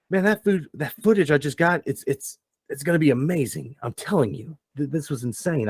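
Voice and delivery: high, fast, giddy rambling voice; excited Spyglass. Acted. Spyglass gushing to the crew after the escape, excited high voice. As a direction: gush breathlessly about the footage. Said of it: "you hear Spyglass goes".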